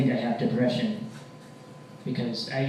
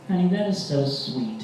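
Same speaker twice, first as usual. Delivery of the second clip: higher, sweet mock-girlfriend voice; touched girlfriend; 6 semitones higher than usual. Girlfriend answering boyfriend's threats, high touched coo. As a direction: coo it as if deeply moved.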